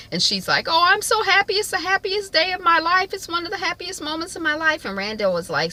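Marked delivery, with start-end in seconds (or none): 0.7-4.8 very high, overcome gushing; hammed-up tearful happiness, pitched way up; mock happy crying. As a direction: act out a mother weeping with joy. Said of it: "He realizes she's crying".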